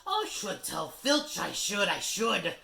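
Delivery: high, loud, slow mock piety; saintly Peeves. Peeves threatens to tell Filch, mock-saintly and high. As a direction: pretend to be dutiful. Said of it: "said Peeves in a saintly voice".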